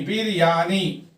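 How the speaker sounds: "बिरयानी" broken into three beats; syllable by syllable. Shown as a demonstration. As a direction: sound out बिर-या-नी for learners. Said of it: "इसके तीन syllable है".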